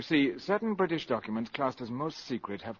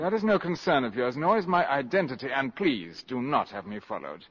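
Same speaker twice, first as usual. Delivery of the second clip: firm rebuff; 3 semitones higher, 7 dB louder than usual. Acted. Spy rebuffs questions firmly.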